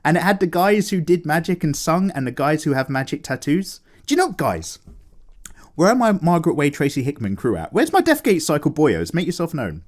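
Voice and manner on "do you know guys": hushed whisper to the chat. Real, not acted. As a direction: whisper it like a secret.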